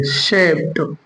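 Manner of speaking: शेप with a T sound at the end; correct pronunciation. Shown as a demonstration. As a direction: add a released T after शेप. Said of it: "डी को हम यहाँ टा पढ़ेंगे". (शेप के अंत में 'ट' की आवाज़)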